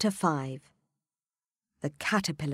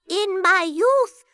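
put-on old man voice; 14 semitones higher, 10 dB louder, slower than usual. A narrator's reading. Father William voiced in poem.

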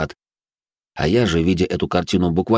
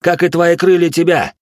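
rising, louder snarl back; growling bugbear; 7 semitones higher, 4 dB louder than usual. A narrator's reading. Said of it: "рыкнул я ему в ответ".

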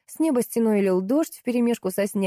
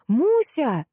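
yell; 7 semitones higher than usual. A narrator's reading. The narrator calls the puppy in the storm, yelling. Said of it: "орала я, охваченная страхом".

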